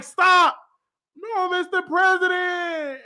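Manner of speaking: mock shout. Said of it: "and I was like".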